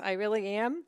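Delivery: "I really am" with a lilting rise on "am"; sing-song. Real, not acted. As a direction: lift "am" up at the end, sing-song. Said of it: "I'm bringing my sing-song voice".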